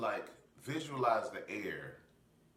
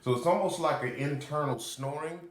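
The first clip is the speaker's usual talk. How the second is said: loud Darth Vader throat breath; ocean throat breathing; 8 semitones higher, 10 dB louder than usual. Shown as a demonstration. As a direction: breathe hard against the back of the throat. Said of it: "I'll try to be as loud about it as possible".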